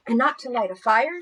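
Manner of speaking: high, loud eager plea; excited child. Acted. Emily bursting with excitement to Mother Nature. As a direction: blurt it out, thrilled. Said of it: "She was very excited".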